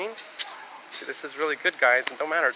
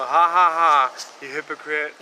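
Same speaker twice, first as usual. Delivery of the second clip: mocking laugh; 7 dB louder, slower than usual. Real, not acted. Mocking old flame.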